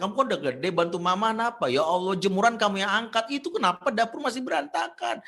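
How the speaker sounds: loud, high-pitched scolding; acted exasperated mum's tirade; nagging mother. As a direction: rattle off complaints at your child. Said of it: "yang ada ngomel buat anak makin tertekan".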